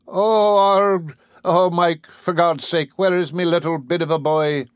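put-on mother shrieking for her lost boy. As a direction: shriek it to the sky for a lost child. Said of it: "Missus Murphy shrieked to the moon".

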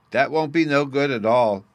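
put-on high, loud little boy protest; a small boy butting in loudly; loud child voice. Bruno the child objects.

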